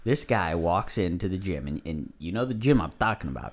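slight Italian accent, low-key storytelling. Real, not acted. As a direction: tell it with a hint of Italian accent. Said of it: "why are you doing Italian accent right there?".

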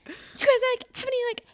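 very high-pitched, gushing small talk; hammed-up perky server at full energy; over-peppy barista. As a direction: imitate a bubbly drive-thru girl, stretching the end. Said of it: "She's, like, a level three thousand".

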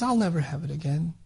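soft, tender promise; gentle, loving. Retold or imitated. Husband soothing his wife over the honey, gently and lovingly. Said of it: "very gently and very lovingly".

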